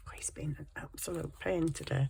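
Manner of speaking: hushed, unvoiced whisper. Real, not acted. Vlogger griping about the pet in a whisper. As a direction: whisper a confidential complaint. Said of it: "I don't know why I'm whispering".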